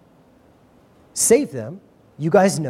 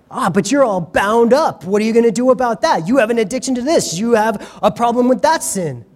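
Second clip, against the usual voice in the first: taunting; 4 semitones higher than usual. Acted. Taunting voice of the accuser.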